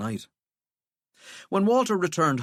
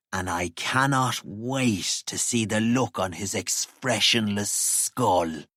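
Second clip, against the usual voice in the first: smiling voice; slower than usual. Acted. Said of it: "a smile in his voice".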